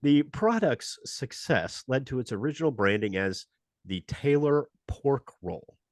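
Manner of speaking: brisk announcer read of a history segment; radio show host. Acted. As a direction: present it like a radio history spot. Hosts the Stupid History Minute.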